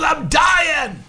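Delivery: high, yelled complaint; mock shout. Sick grandmother protesting to the singer, mock shout. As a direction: holler it in a hammed-up patient voice.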